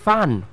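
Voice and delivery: "fun" with a short central uh vowel; correct pronunciation. Shown as a demonstration. Teacher introducing the word F U N, slow careful pronunciation. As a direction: say "fun" slowly, distinct from fan. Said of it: "next word now is the word F U N".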